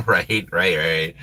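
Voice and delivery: usual speaking voice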